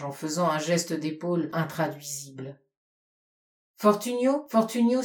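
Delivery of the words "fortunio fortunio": calling out. Acted. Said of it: "s'écria Arabelle".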